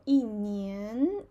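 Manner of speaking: 一 falling, 年 rising. Shown as a demonstration. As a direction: drop 一 and lift 年. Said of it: "also change to falling tone".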